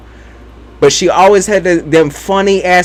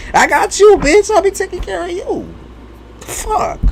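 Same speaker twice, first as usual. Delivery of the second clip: much higher, mock cocky; 14 semitones higher than usual. Teasing her mother in a high mock voice. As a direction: pitch it way up, brash and teasing.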